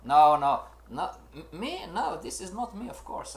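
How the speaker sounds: a hint of a stubborn ego denying it; mock stubborn denial. Trader with big ego denies freaking out, mock protest. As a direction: protest lightly with a jump at the start. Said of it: "you are saying to".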